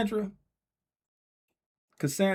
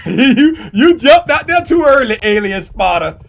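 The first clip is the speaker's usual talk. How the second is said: loud mock scold; 9 semitones higher, 15 dB louder than usual. Mock scolding false start.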